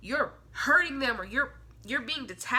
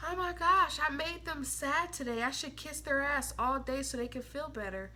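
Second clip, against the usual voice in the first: mock guilty whisper; 5 dB quieter than usual. Mocking guilt-ridden Aquarius.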